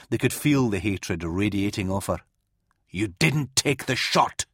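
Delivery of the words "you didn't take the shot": hissed. Acted. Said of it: "she hissed".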